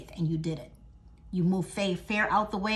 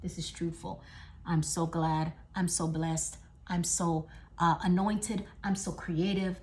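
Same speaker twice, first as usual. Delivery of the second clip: soft wonder; 2 semitones lower, 6 dB quieter than usual. Retold or imitated. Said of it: "you're like".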